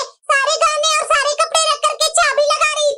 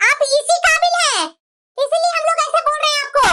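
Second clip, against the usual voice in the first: bitter accusation, rising toward a shout; angry. Acted. Daughter-in-law berates her mother-in-law, angry and rising. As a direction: scold her with mounting anger.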